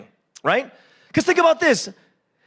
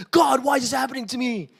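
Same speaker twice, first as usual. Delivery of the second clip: pleading cry. Retold or imitated. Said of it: "really plead".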